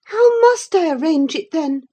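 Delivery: high, loud, exasperated plea; despairing girl. A narrator's reading. Catherine pleading with Linton, high, loud and despairing. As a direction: at her wits' end. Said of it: "she asked despairingly".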